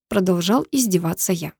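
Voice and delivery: usual speaking voice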